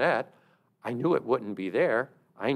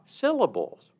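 "syllables" as SIL-uh-buls; first-syllable stress; 5 semitones higher than usual. Shown as a demonstration. Speaker repeats the punchline to listeners, "syllables" stressed on SIL. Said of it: "stress on the wrong syllable".

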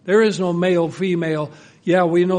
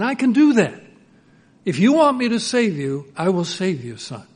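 fervent offer; 2 semitones higher, 3 dB louder than usual. Acted. God offering to save son.

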